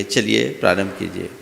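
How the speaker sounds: ordinary talk, nothing marked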